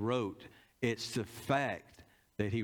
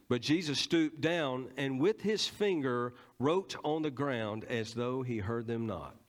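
scripture reading. Acted. Preacher reads verse aloud.

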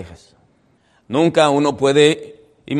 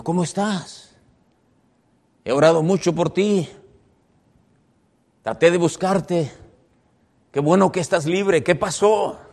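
higher-pitched, eager greeting; concerned greeting; 5 semitones higher than usual. Retold or imitated. Pastor to the young man he searched for, concerned greeting.

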